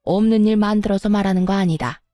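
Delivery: mock-frightened, timid and halting; faked fear. Mother-in-law faking fear of her daughter-in-law, mock-timid. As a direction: pretend to be scared of her. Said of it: "무섭다는 듯 통까지 떨어대면서요".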